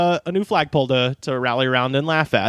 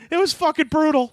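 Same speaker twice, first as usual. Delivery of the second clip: higher, playful shout; mock shout; 11 semitones higher than usual. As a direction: yell it for comic effect. Joking exaggeration.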